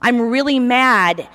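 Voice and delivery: mock-stern God who slows into the anger; hammed-up mad God; urgent God. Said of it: "my God's cool like that".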